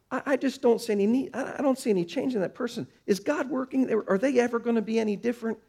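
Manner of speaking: impatient believer thinking aloud; exasperated inner doubt. Retold or imitated. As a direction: rattle off the worries in a rush. Voicing doubting believer's thoughts.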